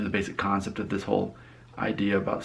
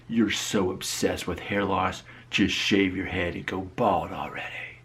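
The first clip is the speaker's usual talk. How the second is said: slow, drawn-out mocking readout; deliberate comment readout; slower than usual. Reading a viewer's hair loss comment, slow and deliberate. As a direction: read it out slowly, word by word.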